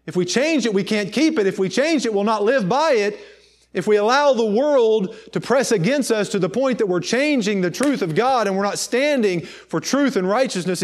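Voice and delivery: driving, insistent sermon delivery; impassioned preaching. Real, not acted. Preacher warning the congregation against changing the truth, impassioned preaching.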